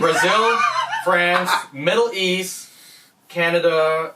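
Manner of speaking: laughing while reading aloud; cracking up mid-list. Real, not acted.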